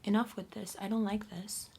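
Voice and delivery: a touch of stern judgment; firm and lightly scolding. Retold or imitated. To people overstepping, set a boundary in a mild judgment voice. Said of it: "with that judgment voice".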